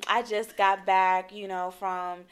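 soft, smug, casual bragging; smug humblebrag. Retold or imitated. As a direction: brag like it's nothing. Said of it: "I said".

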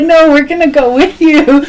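hurried plea to tag along; eager insisting. Retold or imitated. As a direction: blurt it out, not staying behind. Others insist on leaving too.

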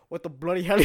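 mock outrage at the kids who crashed; retold yelling. Friend yelling at the kids after the crash, mock shout.

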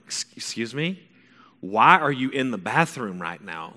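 startled, then slowly incredulous; retold affronted teenager; indignant disbelief. Son to mom who walked in on his shower, indignant. Teen startled by mom's intrusion.

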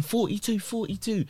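high mock announcer call; sing-song number call; imitating a worker calling over a speaker.

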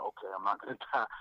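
a laugh breaking into the line; retelling his relief with a laugh. Retold or imitated. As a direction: chuckle through the last word.

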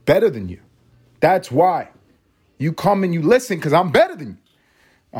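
mock know-it-all pitch, swelling at the end; excited. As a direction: proclaim it like a cocky advice guru. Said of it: "I'm a little excited".

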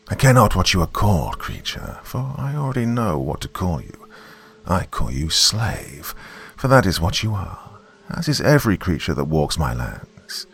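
put-on an old river god, distant as an echo; menacing giant snake, a hint of echo; ancient serpent voice. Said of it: "that sounded low and ancient".

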